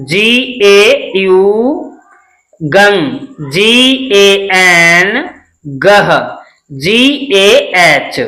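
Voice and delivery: slow, drawn-out letter-by-letter recital; spelling drill recitation. Shown as a demonstration. Teacher drilling Hindi syllables and their English spellings, slow recitation.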